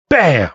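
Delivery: single emphatic impact word with a falling pitch; imitated fist slam. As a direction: punch out the sound of a fist hitting a desk. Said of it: "it sounds like he slammed his fist".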